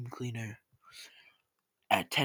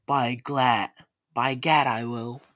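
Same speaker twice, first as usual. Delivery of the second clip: loud, determined exclamation; mother taking up the dare; defiant cry; 7 dB louder than usual. A narrator's reading.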